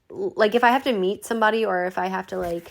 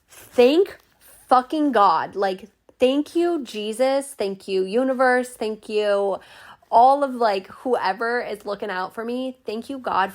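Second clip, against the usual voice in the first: relieved thanks; 3 semitones higher, slower than usual. Retold or imitated. Relieved thanksgiving after phone call.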